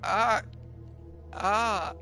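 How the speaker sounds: high, loud, screaming panic; screaming terror. Acted. Victim to the attacker, screaming and begging for help. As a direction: scream and beg as he comes at you.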